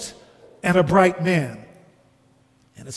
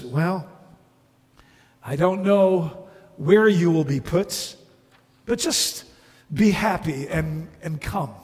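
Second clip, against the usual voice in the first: halting, understated reply with long pauses; gentle bright man. Acted. Bright man inviting the ghost to come, gentle.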